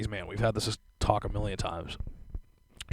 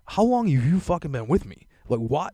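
higher, exasperated disbelief; 5 semitones higher, 4 dB louder than usual. Retold or imitated. To his girlfriend about the Oreo holder, exasperated. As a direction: demand to know how long she's known you.

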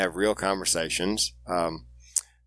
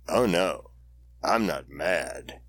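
mock reassuring wife; 4 semitones lower, much slower than usual. Wife reassures, then catches herself.

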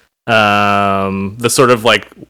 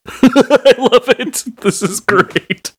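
laughing; 12 semitones higher, slower than usual. Real, not acted. Laughing delight at the impression.

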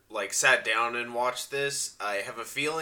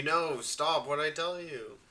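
put-on old prospector; 5 semitones higher, 4 dB quieter than usual. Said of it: "he's telling you".

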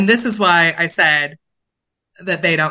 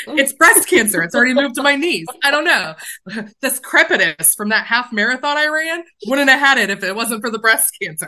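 mock panic; 5 semitones higher than usual. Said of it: "your brain is like".

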